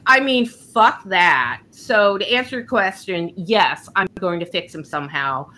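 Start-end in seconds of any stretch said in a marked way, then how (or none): 0.1-1.6 slow, louder and higher fuck that; defiant dismissal. Retold or imitated. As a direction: brush it off with slow, loud defiance. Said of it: "And she's like".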